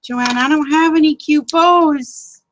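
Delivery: high, loud mock whine at Joanne; whiny wail. Real, not acted. Crafter whining to a friend about missing bows, high and loud.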